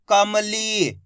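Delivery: "कमली" joined up, final ee held long; blended syllables. Shown as a demonstration. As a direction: blend "कमली" and stretch its last vowel. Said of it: "इनको आपस में लाके पढ़ना है".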